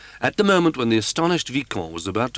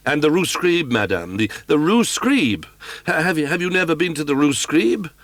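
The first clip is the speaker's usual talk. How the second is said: stammering, louder, insistent pressing; frantic Raoul at his wits' end; exasperated young man; 7 semitones higher, 4 dB louder than usual. Acted.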